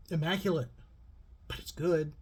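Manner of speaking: talking with gum in mouth; words round a piece of gum; chewing gum. Real, not acted. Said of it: "Sorry, I got gum in my mouth".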